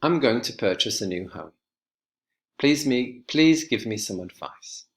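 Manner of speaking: each sentence ending on a clear downward fall; falling intonation. Shown as a demonstration. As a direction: drop the pitch at the end of each sentence. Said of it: "declarative and imperative sentences have a falling intonation".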